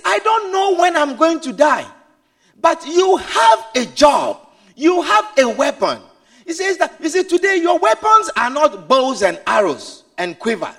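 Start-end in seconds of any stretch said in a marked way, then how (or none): 0.0-6.0 urgent father. Acted. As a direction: press the son hard.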